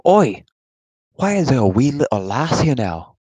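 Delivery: lightly voiced Norse warrior; a hint of a gruff Viking. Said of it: "That's a funny name".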